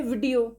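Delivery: वीडियो with a short "vi"; no long "ee" at the start of वीडियो; short first vowel. Shown as a demonstration. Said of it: "छोटी की मात्रा होती है".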